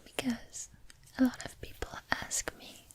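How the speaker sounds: soft ASMR whisper; library whisper. Real, not acted. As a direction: whisper it close and intimate. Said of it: "doing some whispering".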